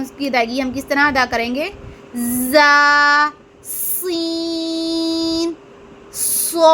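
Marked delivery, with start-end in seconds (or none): 2.5-6.7 जा, सीन, सौद with a long hissing whistle; सीन held very long with a sharp whistling s; whistling letters. Shown as a demonstration. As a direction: stretch सीन into a long sung hiss. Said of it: "इसकी अदायगी करके आप लोगों को बता देती हूँ".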